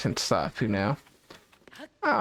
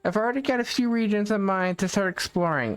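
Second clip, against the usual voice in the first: higher, lightly voiced game character; reading character dialogue; 5 semitones higher than usual. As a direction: read the NPC line a bit higher.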